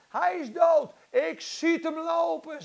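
preacher's shouted faith claim; bold declaration of faith. Acted. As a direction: declare it forcefully against the facts. Acts Wigglesworth declaring dead child walks.

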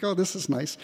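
pleased surprise. Retold or imitated. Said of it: "and you think".

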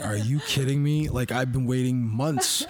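mildly indignant, retold childish protest; huffing like a child. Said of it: "huffing like a child".

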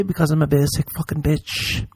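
put-on sassy basic-girl voice; camp put-on voice. Host mocking himself in a sassy basic voice.

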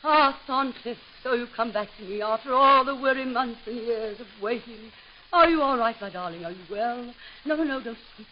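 hammed-up romantic melodrama; melodrama actress. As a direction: swoon through it theatrically. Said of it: "Let us proceed".

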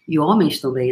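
ordinary talk, nothing marked

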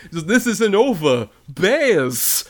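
slow, laughing villain threat; sputtering foiled villain. Retold or imitated. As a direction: shake a fist at the bears. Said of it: "other weird lines".

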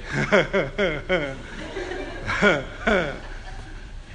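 low, breathy mock stammering laugh; wordless huffs, imitating a tongue-tied fan; speechless starstruck panting. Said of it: "he couldn't talk".

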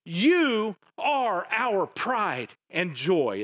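slow, drawn-out and proud; tender proud declaration. Acted. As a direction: savour each word like a proud father. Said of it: "Verse twenty, "Yes".

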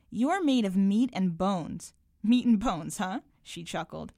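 measured, carefully articulated reading aloud; literary reading with lightly voiced dialogue; story narration. A narrator's reading. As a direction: read your short story to listeners, unhurried. Reads own story aloud.

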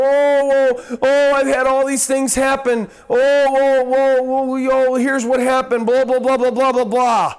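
mildly mocking, gushy oh oh blah blah; mock venting client. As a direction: parody someone pouring out their troubles. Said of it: "spill their guts to a human counselor".

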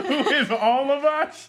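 amused disbelieving echo; giggling question; laughing. Real, not acted.

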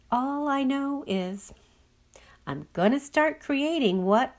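lifted, partly whispered confiding; Clacy character. Acted. Clacy telling her inner voice she changed, lifted and confiding. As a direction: confide your change to an old friend, light and airy. Clacy answers what comes next.

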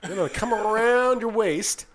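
imitating a TSA agent in a Southern accent; lightly put-on Southern accent, talking through a pat-down. Traveler imitates TSA agent explaining the waist pat-down, Southern accent. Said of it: "talking in a Southern accent".

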